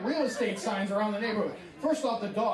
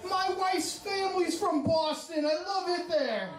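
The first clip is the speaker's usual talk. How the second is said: high, slow, stretched-out put-on voice; exaggerated prank caller, pitched way up; disguised voice; 9 semitones higher, slower than usual. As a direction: draw it out high as the fake agent. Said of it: "I disguise my voice".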